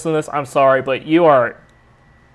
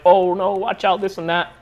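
higher-pitched mock fretting; imitated anxiety; 5 semitones higher than usual. Mother-in-law fretting about trucks, mock anxious. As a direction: imitate an anxious back-seat warning. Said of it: "so she gets anxiety".

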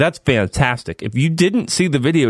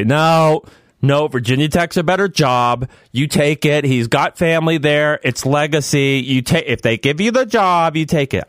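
lightly voiced impression of an insistent fan; mildly raised pitch, urging someone to take it; Davey; 3 semitones higher than usual. Host imitating guys who push the Virginia Tech job, lightly voiced impression. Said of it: "that's a pretty good Davey impression".

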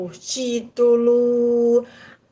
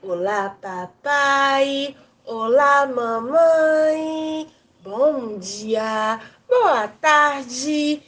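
high, drawn-out playful greeting; silly clown; 6 semitones higher, much slower than usual. Pretend. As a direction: greet the kids like a goofy clown. Children's show greeting, clown-style.

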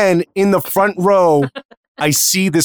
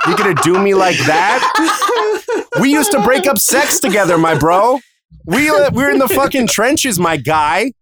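betrayed manager; 4 semitones higher than usual. Retold or imitated. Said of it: "he's like".

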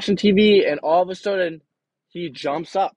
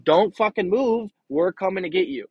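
urgent yell on phone; 6 semitones higher, 3 dB louder than usual. Retold or imitated. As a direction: bark the order so he stays put. Friend on phone, urgent order.

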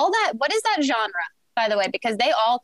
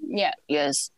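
monster voice; 8 semitones lower, 5 dB quieter than usual. Pretend. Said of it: "Monster voice?".

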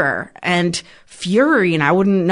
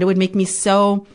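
normal talking voice

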